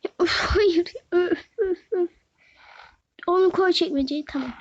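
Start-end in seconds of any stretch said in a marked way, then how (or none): 0.0-2.1 whiny fake crying. Real, not acted. Child protests having to dress up.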